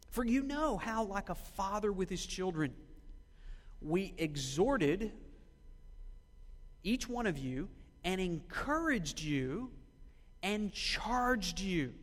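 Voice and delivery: slow, deliberate reading from the pulpit; scripture reading. Acted. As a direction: read the verse out slowly, weighing each phrase. Reads scripture aloud to congregation.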